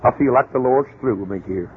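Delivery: a preacher sighing out his excuse; mock pious preacher. A preacher quitting his church, in a low put-on voice. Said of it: "they'll say".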